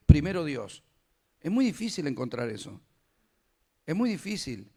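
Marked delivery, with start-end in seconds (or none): 0.1-0.8 loud, firm punchline; louder proclaiming of the point; emphatic declaration. Acted. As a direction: bang it out like a vow. Preacher's emphatic punchline in quote.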